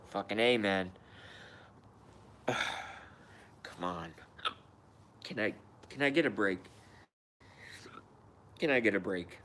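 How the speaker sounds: talking through hiccups; hiccuping while speaking. Real, not acted. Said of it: "Here go the hiccups again".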